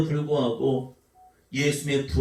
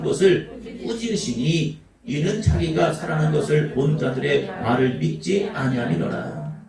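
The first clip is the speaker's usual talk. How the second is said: scripture reading; 3 semitones lower than usual. Acted. Reads scripture passage.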